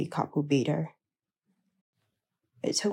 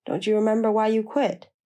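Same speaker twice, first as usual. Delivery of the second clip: heated plea; 4 semitones higher, 4 dB louder than usual. A narrator's reading. Heated quarrel with Millie.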